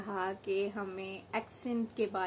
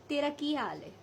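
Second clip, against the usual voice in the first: Abbottabad Hindko accent; 4 semitones higher than usual. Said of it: "जब आप थोड़ा सा एबटाबाद में चले जाते हैं, कहेंगे".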